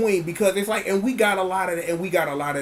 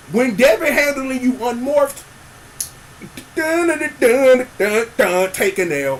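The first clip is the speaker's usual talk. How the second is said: dramatic hype; 7 semitones higher, 6 dB louder than usual. Pretend. Dramatic sound effect build.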